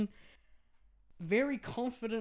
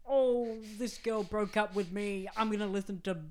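angsty; 4 semitones higher than usual. Retold or imitated. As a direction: sulk like a dumped emo kid. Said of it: "And angst is in".

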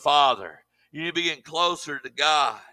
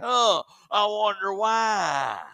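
mock innocent wondering; 3 semitones higher, much slower than usual. Mock puzzled over his gout.

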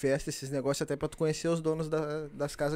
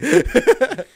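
burst of laughter; 10 semitones higher, 14 dB louder than usual. Real, not acted. Producer joke cracks him up.

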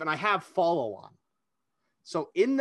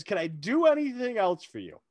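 in character; 5 semitones higher than usual. Retold or imitated. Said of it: "like, in character".

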